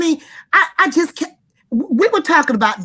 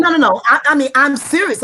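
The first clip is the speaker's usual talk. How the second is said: angry; 4 semitones higher, 4 dB louder, faster than usual. Real, not acted. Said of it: "I'm so angry".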